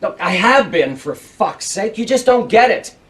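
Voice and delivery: fed up, biting out the words; frustrated outburst at being misunderstood; exasperated. Acted. Man telling a questioner he won't get it, exasperated. Exasperated quarrel, losing patience.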